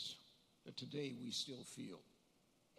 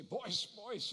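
lightly imitated Swedish accent, pitched higher; higher, a touch of Swedish lilt; 6 semitones higher, 4 dB louder than usual. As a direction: call out as a Swedish grandfather. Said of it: "in his Swedish accent".

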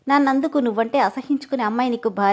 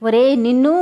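louder, enraged cry at him; furious shout; 6 dB louder than usual. Acted. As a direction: explode in anger. Lunging at his throat, enraged. (కోపంతో గట్టిగా అరుపు)

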